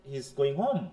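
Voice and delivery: low start, home lifted as a question; question intonation. Shown as a demonstration. Teacher giving an English example, question tune on home. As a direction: ask it through the tune on home. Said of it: "সে কি বাড়ি যাচ্ছে?".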